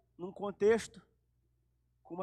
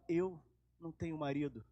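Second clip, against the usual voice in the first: timid; 4 semitones lower, 6 dB quieter than usual. Acted. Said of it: "E ela toda tímida fala".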